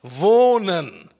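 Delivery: "Wohnen" loud and drawn out; stress on WOHNEN. Shown as a demonstration. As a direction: proclaim "Wohnen" with full weight. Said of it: "Die Betonung liegt auf wohnen".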